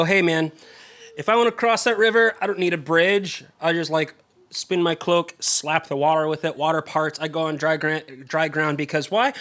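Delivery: strut it out like you own the river; serious swagger. Retold or imitated. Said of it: "serious swagger".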